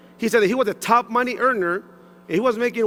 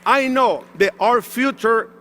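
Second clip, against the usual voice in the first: rousing shout; 3 semitones higher than usual. Real, not acted. Speaker rallying the audience about their future, rousing shout. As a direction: pump up the room, shout it out.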